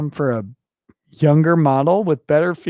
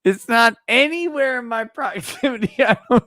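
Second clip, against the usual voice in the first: laughing; 5 semitones higher than usual. Real, not acted. Drunk, laughing, lost stylus.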